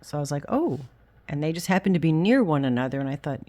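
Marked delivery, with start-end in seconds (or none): 0.5-0.8 surprised. Retold or imitated. Reacting to finding matching yarn.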